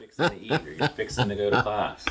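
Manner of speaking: lightly imitated East Texas accent; a touch of country twang, East Texas. Quoting his own old phrase to classmates, light East Texas accent. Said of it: "you say it with an accent".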